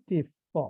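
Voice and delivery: টিথ said with f at the end like টিফ. Shown as a demonstration. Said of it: "মানে টিথ এর উচ্চারণ প".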